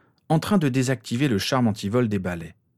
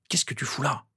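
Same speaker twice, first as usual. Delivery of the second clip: hushed, slightly raised voice; whispering; 4 semitones higher, 6 dB quieter than usual. A narrator's reading. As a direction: ask it under your breath, in hiding. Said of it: "chuchota-t-il".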